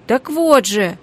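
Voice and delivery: loud irritated retort. A narrator's reading. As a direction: cook pointing at the dead rat, irritated. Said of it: "раздражённо ответила Аннушка".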